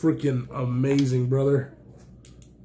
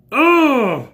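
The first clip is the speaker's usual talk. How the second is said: loud, high oh that falls away; amazed cry at the knife; a big thrilled oh; delighted oh; 9 semitones higher, 9 dB louder than usual. Real, not acted. Opening the surprise knife.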